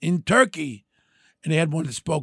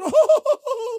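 mock surprised oh; 4 dB louder than usual. Madam's reply to his refusal.

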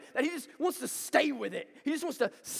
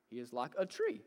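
tree in He is like a tree said softer and pressed; stress on tree; 8 semitones lower, 9 dB quieter than usual. Shown as a demonstration. Pastor showing how to stress tree. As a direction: lean the weight onto tree, quietly. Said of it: "emphasize a different word every time".

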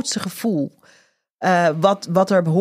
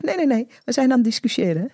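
cheerful; 3 semitones higher, faster than usual. Retold or imitated. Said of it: "heel opgewekt".

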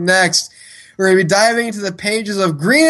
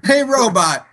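giggling through the words; laughing; 4 semitones higher than usual. Shown as a demonstration. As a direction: say it while cracking up. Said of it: "when you seriously go".

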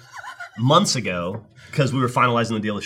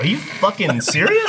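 high, drawn-out mock disbelief; incredulous; 9 semitones higher, 3 dB louder, slower than usual. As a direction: replay being floored, stretching the words. Retold disbelief at her fandom.

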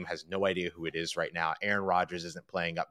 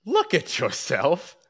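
higher, slow and pointed scolding; mock scolding; 10 semitones higher, 5 dB louder, slower than usual. Mocking cohost's friend Peter, slow teasing scold. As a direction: wag a finger at Peter, drawn out.

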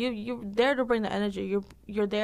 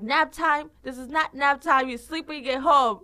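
loud, higher-pitched mock outrage; scolding coach; 6 semitones higher, 7 dB louder than usual. Instructor scolding class lying down during planks, mock outrage. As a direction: tell off slackers in a raised voice.

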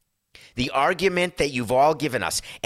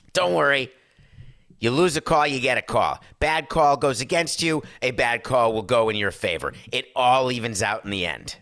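imitating Joe Torre. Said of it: "He would say".

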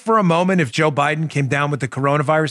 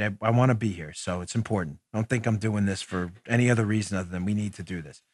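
low, soft, sincere aside; subdued resolve; 8 semitones lower, 9 dB quieter than usual. Real, not acted. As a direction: quietly reassure them you want to be here. Steadying himself after tough morning.

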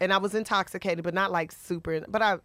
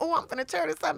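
put-on happy drunk; 6 semitones higher, 3 dB quieter than usual. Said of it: "And I was happy".

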